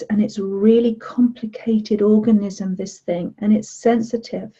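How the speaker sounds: calm guided relaxation voice; guided meditation. Acted. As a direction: gently lead them through touching their head. Leads a body meditation.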